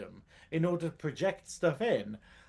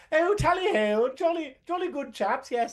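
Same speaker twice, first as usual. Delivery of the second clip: high, hammed-up posh British English, tally ho style; jokey imitation of a posh British accent; mock posh British accent; 9 semitones higher than usual. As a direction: lampoon an upper-class British accent, pitched up. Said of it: "Yes, this is a convincing accent".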